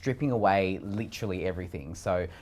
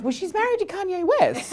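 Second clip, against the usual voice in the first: high, breezy, put-on voice, pitched up; mock matter-of-fact; 6 dB louder than usual. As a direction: toss it off like it's obvious. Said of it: "And I'm like".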